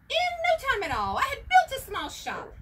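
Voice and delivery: busy Onceler racing through his work; brisk excitement. Acted. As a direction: rattle it off, proud and hurried. Onceler's quick busy boast.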